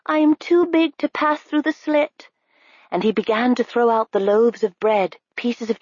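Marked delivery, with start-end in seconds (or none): 0.0-2.3 Harve. A narrator's reading. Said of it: "he said".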